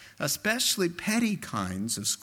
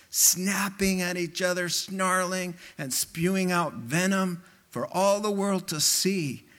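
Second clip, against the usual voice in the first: higher-pitched list of mock disbelief; imitated incredulous outrage; 5 semitones higher than usual. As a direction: act out someone appalled, item by item. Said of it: "I just could hear him saying".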